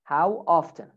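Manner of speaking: American "often" with the T sounded; American accent. Shown as a demonstration. Teacher models American "often" for students, clear T. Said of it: "In American accent".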